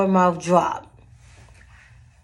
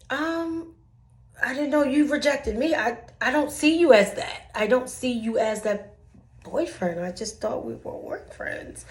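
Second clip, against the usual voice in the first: mock innocent; 4 semitones higher than usual. Mock innocent reply to coworker.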